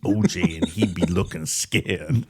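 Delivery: slow mock Jamaican accent. Prank caller reporting after the truck returns, Jamaican accent. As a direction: imitate a Jamaican prank caller, dragging the last words. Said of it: "He's like".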